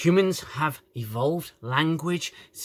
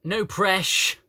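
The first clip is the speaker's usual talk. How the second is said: raised mock quote; quoted slang; 5 semitones higher than usual. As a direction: mimic her cut-short slang. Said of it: "She says to Spock".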